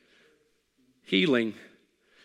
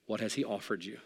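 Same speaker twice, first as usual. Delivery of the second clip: the same question again, much softer; quiet repeat; 4 semitones lower, 7 dB quieter than usual. Shown as a demonstration. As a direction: drop it down and let it land softly.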